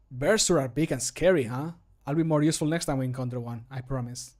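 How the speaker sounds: quick, earnest promise after a small worry; sincere, settling down toward the promise; reassuring. Acted. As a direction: reassure a companion without joking. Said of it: "he's more reassuring".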